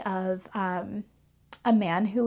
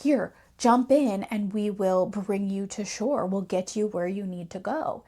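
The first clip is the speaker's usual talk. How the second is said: surprised fisherman. Retold or imitated. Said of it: "He's like".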